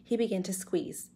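put-on measured read-aloud for children; story narration. A narrator's reading. Teacher reading a chapter to pupils, storytelling voice. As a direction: tell the adventure clearly, with suspense.

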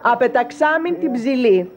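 slow dictation. Acted. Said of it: "να μου πεις τρεις φορές".

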